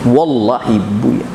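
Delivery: low, slow mock dim-witted voice; dull slow drawl. Preacher mimics the child made stupid, slow dull drawl.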